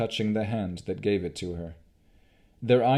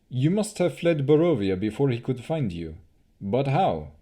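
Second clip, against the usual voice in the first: lightly voiced elf, slightly higher; a hint of a different elf voice, urgent; elf Casimir; 4 semitones higher, 3 dB louder than usual. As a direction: Casimir asking Rowan how she escaped, lightly voiced. Narrator voicing elf Casimir.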